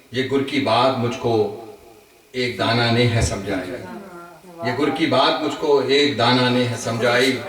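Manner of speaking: measured Urdu verse with pauses between phrases; ghazal recitation. Acted. Poet shares his ghazal with friends at a gathering, measured recitation. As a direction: recite each line to the room, lifting the repeats.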